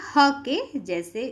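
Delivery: slow, with ह lifted and drawn out; stressing ह. Shown as a demonstration. Teacher stressing the visarga sound to students, slowly. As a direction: lean on ह so the class hears the sound. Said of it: "इसका उच्चारण ह जैसा होता है".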